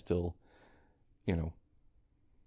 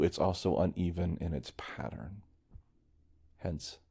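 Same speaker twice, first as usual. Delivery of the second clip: ordinary talk, nothing marked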